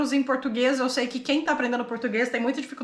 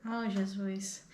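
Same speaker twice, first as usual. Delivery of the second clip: exasperated; 5 semitones lower, 11 dB quieter, much slower than usual. Real, not acted. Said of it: "exasperated at being corrected".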